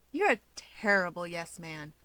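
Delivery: flat intoning. Acted. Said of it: "Keigo intones, flatly enough".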